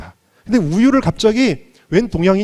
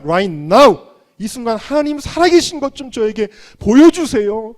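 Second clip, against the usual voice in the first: higher, louder cry to God; desperate plea; 5 semitones higher, 4 dB louder than usual. Retold or imitated. Despairing man crying out to God, high and loud. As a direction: beg heaven like a broken man.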